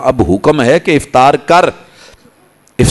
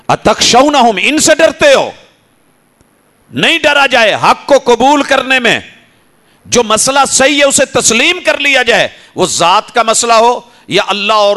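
high, ringing sermon climax; fiery preaching; 10 semitones higher than usual. Acted. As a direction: preach it out, lifted and urgent. Preacher rises to full force. (بلند آواز میں جوشیلا خطاب)

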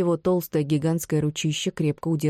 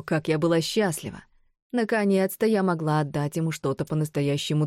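crazed villainess. Acted. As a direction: rant like a madwoman. Narrator voices mad Bron.

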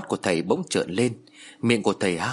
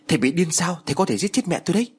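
much higher, quickening protest; alarmed yell; 7 semitones higher than usual. A narrator's reading. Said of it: "rồi hét lên". (hét lên phản đối, giọng cao và gấp)

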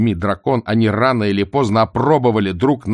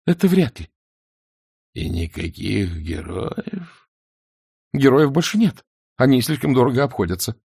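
timid little man; 4 semitones higher than usual. A narrator's reading. Vonce answers dragon, higher.

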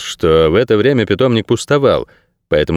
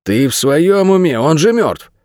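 higher, drawn-out disbelief; incredulous; 7 semitones higher, slower than usual. A narrator's reading. Jar answers his colleague's impossible claim, incredulous. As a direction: question his sanity, pitch raised and words stretched. Shocked reply to a dead-man sighting.

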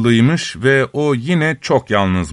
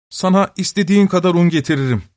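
joyful eagerness; 5 semitones higher, faster than usual. Acted. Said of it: "demiş öksüz sevinerek".

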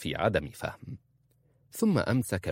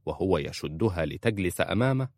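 ordinary delivery

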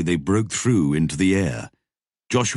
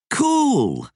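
delighted; 3 dB louder than usual. A narrator's reading. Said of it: "said Jan Roderick".

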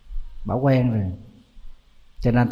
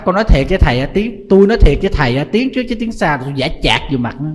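boastful granny; 3 semitones higher, 4 dB louder, faster than usual. Retold or imitated. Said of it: "Bà nói".

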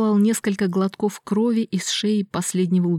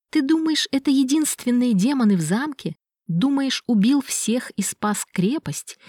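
higher, rising to a whisper; manic gloating; 5 semitones higher than usual. Acted. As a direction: gloat madly, then hiss it. Miklash gloats madly. (безумное злорадство)

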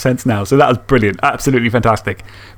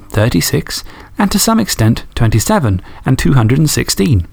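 steady, measured storytelling read; story narration. Acted. Podcast host reading a listener's story, measured storyteller voice. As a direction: read the fan story like an audiobook. Reads a fan story aloud.

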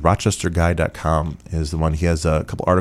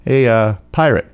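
bartender calling out; 5 semitones higher, 4 dB louder than usual. Retold or imitated. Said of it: "He's like".

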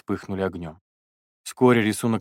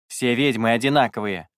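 growled; 2 semitones higher, 3 dB louder than usual. Acted. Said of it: "прорычал Бернар".

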